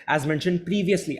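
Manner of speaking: "previously" stretched out and said clearly; slow down and lean on "previously"; emphasis on previously. Shown as a demonstration. Teacher showing students which word to focus on, emphasis on "previously". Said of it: "तो आपको सही से बोलना है".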